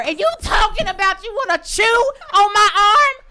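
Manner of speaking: mock outrage. Telling off the would-be biter, mock outrage. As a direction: play up the outrage, half laughing.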